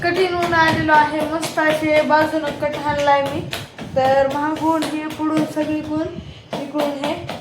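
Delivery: ordinary talk, nothing marked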